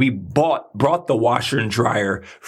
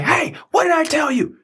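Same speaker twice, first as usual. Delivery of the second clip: much higher, pushed-out call of an insistent heart; loud heart voice. Retold or imitated. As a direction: blurt it like a know-it-all heart. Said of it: "Your heart ain't gonna be loud".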